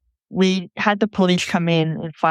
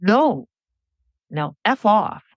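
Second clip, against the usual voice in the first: a sudden, higher, rough blurt of refusal; 5 semitones higher, slower than usual. Retold or imitated. Scared young woman blurting at the driver, higher and sharp. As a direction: blurt it out in fear, pitch jumping up. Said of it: "suddenly I blurred out".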